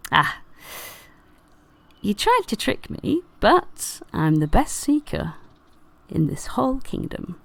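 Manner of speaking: lightly voiced proud fairy; a hint of a boastful fairy; boastful fairy seeker. Fairy seeker boasts at finding rabbit.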